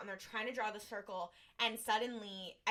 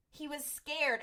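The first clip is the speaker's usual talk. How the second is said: louder, higher he was scared; excited realization; 5 semitones higher, 4 dB louder, slower than usual. Retold or imitated. Dean announcing his discovery to the crew, louder and higher.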